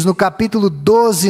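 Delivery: ordinary delivery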